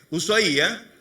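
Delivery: "Ushuaia" stressed on a separate I, u-sua-Í-a. Shown as a demonstration. Preacher showing where the accent falls, stress on the I of Ushuaia. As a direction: demonstrate "Ushuaia" with the accent landing on Í. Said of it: "un acento en la I".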